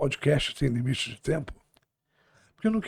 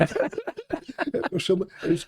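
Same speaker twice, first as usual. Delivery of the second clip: laughing; 3 semitones higher than usual. Real, not acted. Host laughing mid-sentence.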